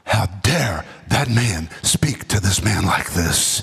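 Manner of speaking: lightly voiced, slow scandalized onlookers; indignant invalids. Sick people in the room objecting to Jesus, mild indignation. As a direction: sound shocked and slowly outraged. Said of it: "I can almost hear the other invalids saying".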